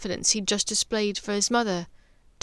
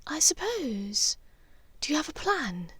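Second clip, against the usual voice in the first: reluctant whisper; 7 semitones higher, 3 dB quieter than usual. Acted.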